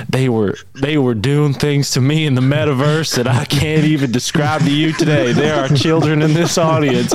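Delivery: high, mock-outraged rant voice; mock council-meeting rant; quoting Alex's rant. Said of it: "You're like".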